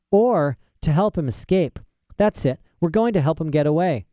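put-on bright child, suddenly sure; eager girl voice. Lyra realizes her purpose.

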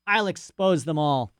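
put-on a rambling, self-important old scholar; lightly voiced old professor. Professor's rant continues.

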